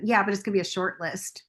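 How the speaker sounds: fast, cocky brush-off to sponsor; sassy. Retold or imitated. Telling her sponsor the list will be short, fast and sassy. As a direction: toss it off like Miss Sassy Pants. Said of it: "Miss Sassy Pants".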